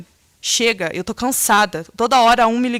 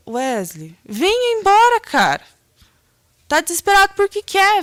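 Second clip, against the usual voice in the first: scolding; 5 semitones higher than usual. Retold or imitated. To her drunk brother on the phone, a raised scolding voice. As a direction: order him home, exasperated.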